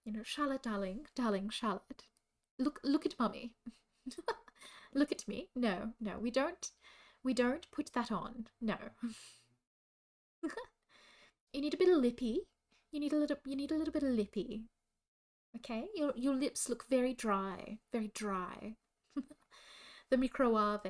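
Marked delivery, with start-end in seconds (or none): 0.2-8.8 a hint of a doting posh mum scolding Charlotte. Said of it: "I can do posh mum". 11.5-18.8 higher, louder posh mum fussing over lipstick; mild posh mum bit. Retold or imitated. Continuing the posh mum impression.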